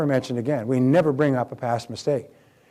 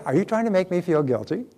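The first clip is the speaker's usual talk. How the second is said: light, cheerful question; 4 semitones higher than usual. Shown as a demonstration. Cheerful question to a guilt-tripping mother. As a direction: ask it brightly, like it's no big deal. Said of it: "say it with a cheerful voice".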